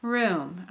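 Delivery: "room" with the fall inside one syllable; isolated stressed "room", pitch dropping; last stress on ROOM. Shown as a demonstration. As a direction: say "room" as the stressed sentence ending. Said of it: "so that was the last stress".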